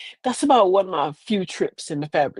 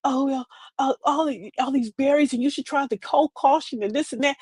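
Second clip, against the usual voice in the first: know-it-all lady; 5 semitones higher than usual. Retold or imitated. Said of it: "one lady goes".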